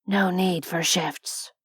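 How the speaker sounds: slow monotone android voice; lightly voiced cyborg, even and toneless; flat mechanical voice. A narrator's reading. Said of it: "in that flat, mechanical voice".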